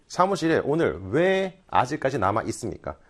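usual speaking voice

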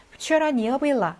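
Вчера не было read very slowly word by word; slow, careful Russian read; slow model reading. Shown as a demonstration. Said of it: "왜 여기에서 생격이 되었는지".

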